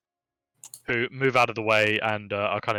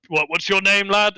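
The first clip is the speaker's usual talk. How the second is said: higher, louder hearty question; jolly captain asking; 8 semitones higher, 5 dB louder than usual. Acted. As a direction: ask the lad's name like a friendly captain. Captain asks the boy's name.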